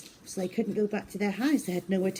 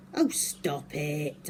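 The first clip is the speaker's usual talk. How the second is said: annoyed; 2 semitones lower, much slower than usual. Acted. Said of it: "I said".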